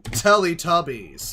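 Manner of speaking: slow drawn-out mock echo; slow mocking echo of the kid. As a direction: parrot the kid's flat text-to-speech delivery, slowly. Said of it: "that's what this guy's doing".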